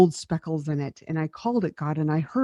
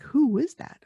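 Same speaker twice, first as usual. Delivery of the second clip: higher-pitched, baffled question; mock surprise; 8 semitones higher than usual. Woman hearing her old voice on family videos, surprised. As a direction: imitate yourself not recognizing a voice.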